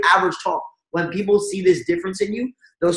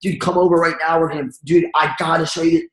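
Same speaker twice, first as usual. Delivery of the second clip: pushy rambling pitch. Retold or imitated. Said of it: "You don't wanna puke on them".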